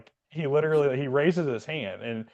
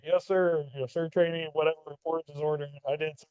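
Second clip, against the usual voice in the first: imitating the scared trainee; 5 semitones higher than usual. Trainee answering the instructor.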